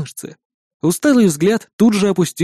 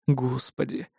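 lower, much softer Господи, under the breath; dismayed murmur; 3 semitones lower, 10 dB quieter, slower than usual. A narrator's reading. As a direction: mutter Господи, in quiet dismay. Dismayed at tattooed girl.

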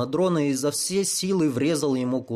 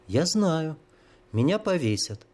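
lightly; 5 semitones higher than usual. Acted. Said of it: "с поразительной лёгкостью закончила".

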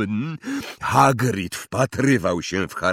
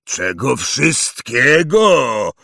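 louder, slow booming echo of the question; thundering; 4 semitones higher, 6 dB louder, much slower than usual. Acted. Hagrid at Harry, thundering disbelief. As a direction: thunder the words back at him. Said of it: "zagrzmiał Hagrid".

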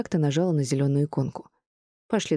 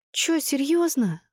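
slow, high-pitched disbelieving question; drawn-out astonishment; exhaled disbelief; 10 semitones higher, much slower than usual. A narrator's reading. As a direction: draw it out, pitched way up. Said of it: "выдохнула госпожа Лакунс".

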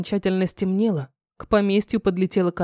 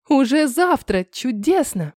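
shrieking jackpot winner; 4 semitones higher, slower than usual. Acted. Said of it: "Едва не завизжала от радости".

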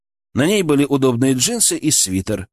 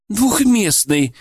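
laughing; 9 semitones higher, much slower than usual. A narrator's reading. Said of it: "смеясь сказала она".

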